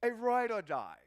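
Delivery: mild mock posh British reading; lightly put-on Oxford English read; a hint of an Oxford reader's voice. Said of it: "I'm gonna read it in my Oxford voice".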